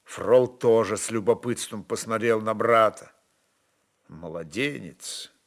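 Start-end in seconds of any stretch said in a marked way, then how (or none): 4.1-5.3 low, soft, slow dismissal; quiet scorn. A narrator's reading. Stepan calls his brother a babe, low and soft.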